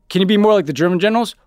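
mock a stilted script; mock movie dialogue. Mocking the book's dialogue, stagey line reading. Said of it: "the dialogue was like".

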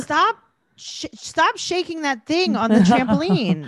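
put-on high, slow little girl pleading; imitating a little girl. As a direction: squeak it out like a four-year-old begging. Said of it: "she's like".

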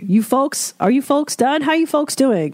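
high, breezy waiter voice; chummy waiter. Retold or imitated. Comedian imitating a waiter checking on the table: breezy and high. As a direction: check on the table with easy cheer. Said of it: "the waiter would come and be like".

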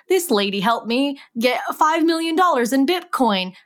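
a touch of fake-grateful testimonial; spam commenter. Host reading out a spam comment, mock grateful. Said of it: "like the ones that's like".

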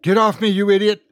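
high, fast, angry protest; angry struggle. A narrator's reading. Woman grabbed round the waist, angry high protest. Woman fights off her attacker.

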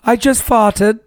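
refined mock-British delivery; British accent. Comic testing a disgusting line in an elegant British accent. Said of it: "that did sound good".

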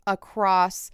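slow, hammed-up poetic narration; flowery storyteller. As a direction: stretch out every flowery phrase slowly. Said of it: "That was word salad".

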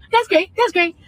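mock cheerful, sarcastic; fake-nice voice, teeth showing in a smile. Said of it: "smile like".

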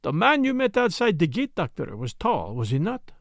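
a hint of a precise, questioning Belgian sleuth; Poirot. Story figure, Belgian detective.

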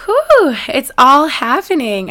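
high, loud whoop, then drawn-out words; excited. Real, not acted. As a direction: let out real giddy excitement. Back from the realtor's call.

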